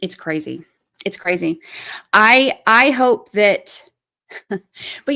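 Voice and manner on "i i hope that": loud, slow, emphatic start; heated outburst. Real, not acted. Ranting at harassers of jurors, loud and slow. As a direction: push each word out hard.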